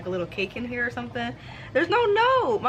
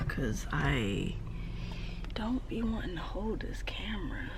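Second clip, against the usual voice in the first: soft unvoiced whisper; quiet whispered grumble; whispered aside; 3 semitones lower, 11 dB quieter than usual. Real, not acted. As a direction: mutter it to yourself. Aside while setting up camera.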